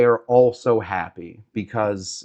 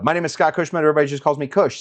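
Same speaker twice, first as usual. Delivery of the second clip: intro line; 3 semitones higher, much faster than usual. Shown as a demonstration. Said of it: "I always say".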